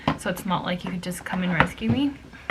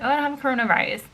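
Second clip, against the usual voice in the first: quick, higher-pitched mock quote; mocking imitation; 4 semitones higher, much faster than usual. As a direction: rattle it off, mimicking his lame excuse. Mockingly repeats the harasser's excuse.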